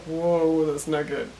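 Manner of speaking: low, soft mock Dan voice; lightly voiced Dan, caught off guard; a hint of Dan saying whoa; imitating Dan voice. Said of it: "Lucifer slash Tom Ellis does a Dan voice".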